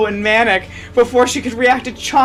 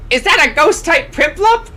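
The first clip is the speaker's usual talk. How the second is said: higher, eager gasp of wonder; excited gasp; 9 semitones higher than usual. Acted. Ivana spotting a rare ghost Pokemon, excited. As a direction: gasp it like a delighted fan. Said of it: "Ivana gasped".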